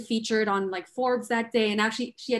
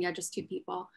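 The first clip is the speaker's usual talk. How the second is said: soft, sweetly imitated agreement; 2 semitones lower, 10 dB quieter than usual. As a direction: say it softly, imitating a sweet, shy mother. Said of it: "Very sweetly".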